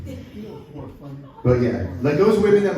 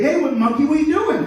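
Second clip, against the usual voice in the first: higher, louder cartoon critter voice; gecko voice; 10 semitones higher, 4 dB louder than usual. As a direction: squeak it out like a little lizard.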